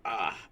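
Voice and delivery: short pained grunt; effort grunt. Real, not acted. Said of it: "I apologize for the grunting".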